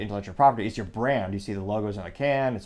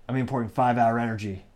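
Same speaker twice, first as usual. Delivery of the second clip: lightly put-on voice, oddly accent-less; odd accent-less character. Underground bad guy announcing his imports to the others, lightly put-on odd voice. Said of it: "why he has that accent or lack of accent".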